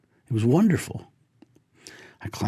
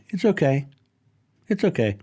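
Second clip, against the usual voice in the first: reassuring; 5 semitones higher than usual. Retold or imitated. Reassuring the deer not to worry.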